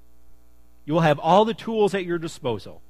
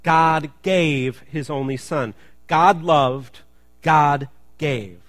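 each word slowed and leaned on, God stressed; slow emphatic repeat; 6 dB louder, much slower than usual. Shown as a demonstration. Pastor leads the congregation to repeat the line, slow and emphatic. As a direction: spell it out slowly so the church can say it back. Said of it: "Can we say that?".

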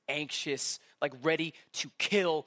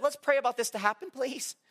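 mock pleading; 6 semitones higher than usual. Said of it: "'Cause that's what I would do".

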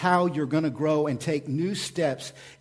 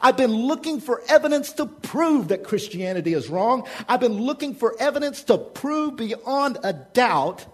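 scoffing skeptic; 9 semitones higher, 5 dB louder than usual. Acted. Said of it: "look at us and say".

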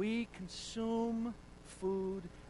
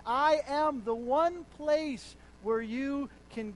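declaring; 4 semitones higher, 8 dB louder than usual. Retold or imitated. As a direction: announce it like a declaration. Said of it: "Jesus declared".

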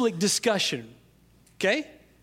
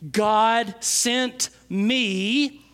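slow and lifted, louder on "to you"; slow, rising proclamation; 4 semitones higher, 3 dB louder, much slower than usual. Shown as a demonstration. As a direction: proclaim it slowly to the crowd. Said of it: "Jesus' response is".

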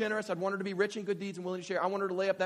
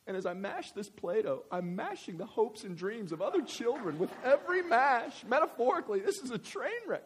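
hammed-up guilty child; 3 semitones higher than usual. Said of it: "my kid doesn't talk like that".

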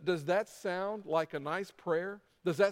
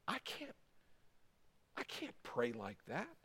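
softly voiced reluctant listener; hesitant objection; 6 semitones lower, 12 dB quieter than usual. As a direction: object timidly, well under your usual volume.

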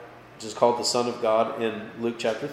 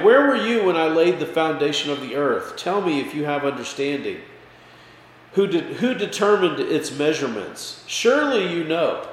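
sarcastic; 3 semitones higher than usual. Acted. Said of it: "I love the sarcasm there".

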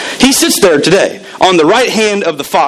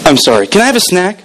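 a breezy, faster take of the kid's fake apology; quick mock kid apology; faster than usual. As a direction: rattle it off fast like a careless kid. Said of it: "I'll say that again".

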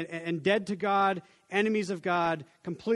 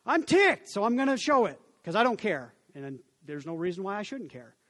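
mock angry rant. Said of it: "throw fits of anger".

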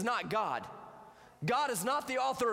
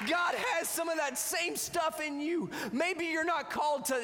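preaching at full force; 6 semitones higher than usual. Acted. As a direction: lift it to a shouting climax. Preaching climax.

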